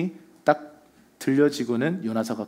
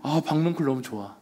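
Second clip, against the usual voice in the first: softly sighed, pleased murmur; understated blissful little sigh; mock contentment; 5 dB quieter than usual. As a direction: imitate someone basking in simple relief. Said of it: "너무 좋아하는 거예요".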